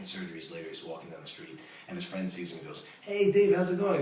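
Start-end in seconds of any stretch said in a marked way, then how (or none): 3.0-4.0 cheerful call. Retold or imitated. Friend greets on the street.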